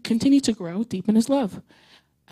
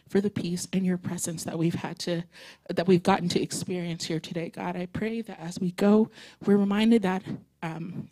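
prayer. Acted. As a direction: pray gently over the congregation. Closing prayer.

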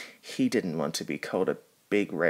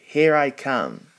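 higher, louder rallying cry; heroic charge; 6 semitones higher, 6 dB louder than usual. Acted. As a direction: launch into action boldly. Hero charges to rescue.

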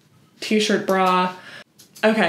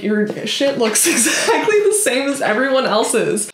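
laughing retort; 4 semitones higher than usual. Retold or imitated. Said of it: "And I'm like".

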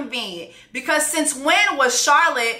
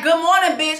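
sassy mock greeting; 4 semitones higher, 3 dB louder than usual. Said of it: "And she's like".

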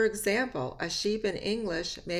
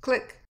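short, high, loud click; quick animal click; imitated click; 7 semitones higher, 6 dB louder than usual. Shown as a demonstration. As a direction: pop it out like a dolphin's click. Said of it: "Animal noises".

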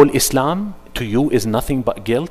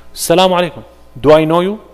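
higher, louder retold greeting and snub; mock hostile exchange; 5 semitones higher, 5 dB louder, much faster than usual. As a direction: act both sides lightly.

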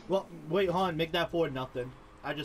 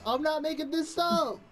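excited shouting; 11 semitones higher, slower than usual. Real, not acted. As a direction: scream in triumph. Celebrating five nothing lead.

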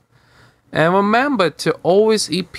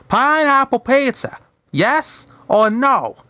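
eager character voice; 6 semitones higher than usual. Acted. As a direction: ask it with glee. Wanda asking Hader.

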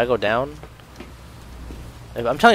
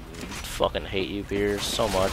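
slow, low, drained anger; seething hate; 3 semitones lower, 6 dB quieter, slower than usual. Real, not acted. Gamer telling Pierce they hate him, slow seething. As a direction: let the hate out slowly and heavily. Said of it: "My hate is strong right now".

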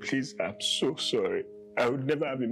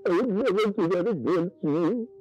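high, loud, crying apology; tearful pleading; 9 semitones higher, 4 dB louder than usual. Acted. Husband on his knees begging his wife, sobbing. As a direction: beg her forgiveness through sobs.

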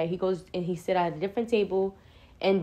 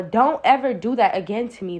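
scolding mama; 4 dB louder than usual. Retold or imitated. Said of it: "like, I was his mama".

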